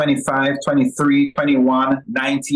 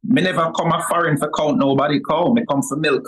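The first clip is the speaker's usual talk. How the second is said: Jamaican Patois; faster than usual. Shown as a demonstration. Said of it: "I say it all the time".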